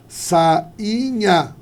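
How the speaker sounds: SAINHA drawn out as SA-I-NHA; syllables separated. Shown as a demonstration. Teacher showing a hiatus, SAINHA in separated syllables. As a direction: hold A and I apart in SAINHA.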